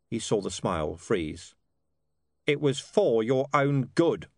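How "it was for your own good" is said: slow, mildly growled commander's voice; a slow, understated growl of reproach. Acted. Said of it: "Vimes growled".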